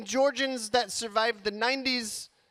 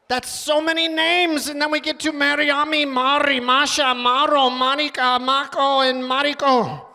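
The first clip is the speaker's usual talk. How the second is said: louder, higher rapid-fire list; building rant; 4 semitones higher, 4 dB louder than usual. Acted. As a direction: pile the names on, getting louder. Escalating list of names.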